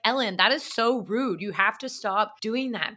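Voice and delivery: lightly imitated British scolding; a hint of a British manager telling someone off; British accent. British manager scolding her intern for copying her, in a light British accent. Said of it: "She was British".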